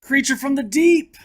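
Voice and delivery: dramatic announcement. Acted. Reading a monster book to kids, booming the title. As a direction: announce it like a monster movie trailer.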